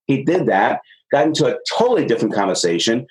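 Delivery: ordinary talk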